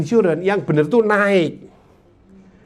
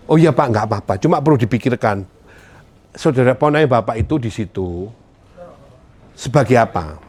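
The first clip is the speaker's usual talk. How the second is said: calm seller reply; 7 semitones lower than usual. Shown as a demonstration. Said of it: "Yang ini".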